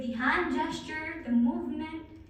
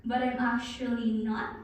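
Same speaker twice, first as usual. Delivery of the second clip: slowing down. Shown as a demonstration. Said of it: "I'm going to try and slow down".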